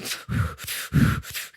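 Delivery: imitated hard cigarette puffs; aggressive smoking noises. Co-host mimicking her smoking, aggressive mock puffing. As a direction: blow out sharp, forceful breaths. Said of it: "smoking a cigarette really aggressively".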